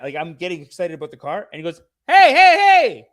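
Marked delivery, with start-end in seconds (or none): 2.1-3.1 slow, high, loud scolding; hammed-up uncle shouting his objection; pissed-off uncle. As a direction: draw out each word in mock outrage. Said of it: "He was pissed".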